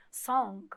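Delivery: song with only a hint of a g at the end; barely touch the g in song; subtle g. Shown as a demonstration. Teacher showing students how to say it, subtle g in song. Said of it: "um G bem sutil".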